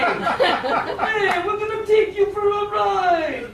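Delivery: a hint of a gangster's menace; tiger mob boss. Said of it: "says to me".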